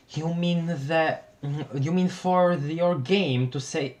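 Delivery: reply in the swapped voice; wrong character voice. Acted. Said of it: "I messed up the frickin' voices".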